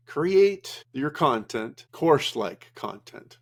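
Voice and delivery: slow, drawn-out quote; imitating Omar's delivery. Presenter quoting Omar's content advice, slow imitation. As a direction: lightly imitate him, stretching the words out. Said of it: "That's how he says it".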